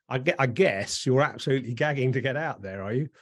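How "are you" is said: ordinary talk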